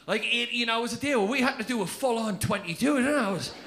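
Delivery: a cat moaning about its long nap, only lightly put on; cat impression. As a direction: comedian doing a lightly voiced cat. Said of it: "That is a spot-on cat impression".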